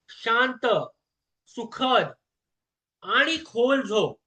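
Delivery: calm, measured guidance with long pauses; guided sleep meditation. Acted. Guide telling the listener to breathe and let go, calm and reassuring. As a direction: guide them gently into sleep, phrase by phrase.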